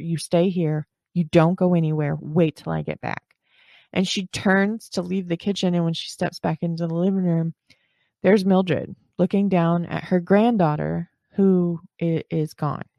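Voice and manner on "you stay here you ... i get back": very firm, stern, no-argument, forceful voice. A mother tells her daughter what to do before leaving the kitchen, in her firmest voice. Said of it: "in the firmest voice that she can muster".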